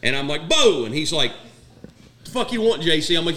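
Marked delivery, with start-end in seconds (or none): 0.5-0.8 loud, higher call across the camp. Retold or imitated. Calling out to gunny. 2.2-3.2 1 gruff retort. Retold or imitated. Naked gunny answering.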